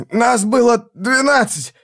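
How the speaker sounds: hoarse gasp. Acted. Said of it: "прохрипел он".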